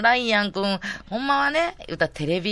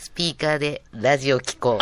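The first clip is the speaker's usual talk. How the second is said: lower, measured talking-voice imitation; comic singer impression, talking rather than singing; impression of a singer; 5 semitones lower than usual. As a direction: lightly mimic a singer's speaking voice. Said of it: "松任谷由実さんのモノマネしだしてやんか".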